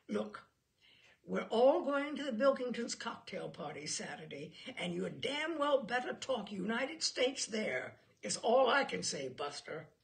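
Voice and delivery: laying down the law to her husband; angry scolding. Acted. Wife scolding husband after guests leave.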